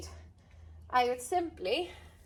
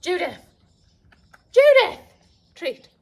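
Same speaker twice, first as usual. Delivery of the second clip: deeper call voice; 5 semitones higher, 12 dB louder than usual. Shown as a demonstration. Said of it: "go in a slightly deeper vo-, voice".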